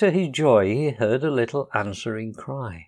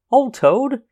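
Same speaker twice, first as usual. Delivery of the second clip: laughing heartily; 12 semitones higher, 6 dB louder than usual. A narrator's reading. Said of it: "said the rat, laughing heartily".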